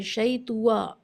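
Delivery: شیطوا with a rounded wa after the ta; wrong twa. Shown as a demonstration. Teacher imitating reciters' wrong heavy ta. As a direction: say شیطوا as the common mistake. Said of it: "لوگ اس کو توا پڑھ دیتے ہیں".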